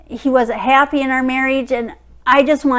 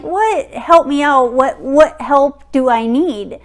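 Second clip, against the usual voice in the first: incredulous disbelief; 2 semitones higher, 4 dB louder than usual. Retold or imitated. Wife scoffing at husband's offer to help her out, incredulous. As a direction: repeat his offer back like it's absurd. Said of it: "And I'm like".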